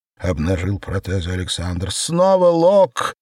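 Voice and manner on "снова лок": laughing. A narrator's reading. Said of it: "хохотала Светлана".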